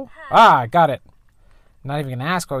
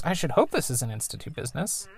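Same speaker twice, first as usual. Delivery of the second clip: mom's voice; 3 semitones higher than usual. Acted. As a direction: reread as the mom, a bit higher. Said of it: "er, wait".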